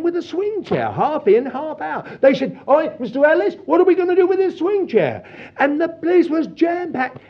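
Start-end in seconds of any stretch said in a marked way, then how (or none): 2.7-5.2 imitated workman calling the boss; high-pitched shout-out across a shop. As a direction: call over to the boss, pitched up.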